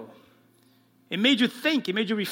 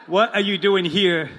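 louder, with a laugh; louder second take; 5 dB louder than usual. Shown as a demonstration. Pastor retries the line for the congregation, louder and laughing. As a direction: punch it out the way it should sound. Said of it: "Let's try that again".

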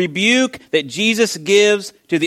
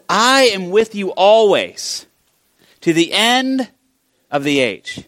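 slow, higher, drawn-out declaration; emphatic promise; 3 semitones higher, slower than usual. Acted. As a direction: proclaim a solemn promise. Quotes Jesus's promise emphatically.

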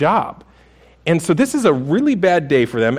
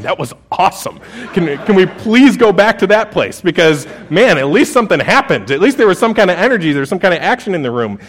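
louder, eager, a bit fast; excited teenagers; 3 semitones higher, 3 dB louder than usual. Retold or imitated. Teenagers on the drive home, gushing excitement. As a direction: gush like a thrilled teen. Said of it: "they're just going".

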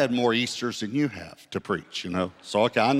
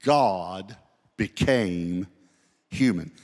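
each word set apart, landing firmly on human; God, pause, became, pause, then a weighted human; stress on human; 3 semitones lower, much slower than usual. Shown as a demonstration. Preacher showing which word matters, stress on human. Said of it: "my emphasis is on ... second noun, human".

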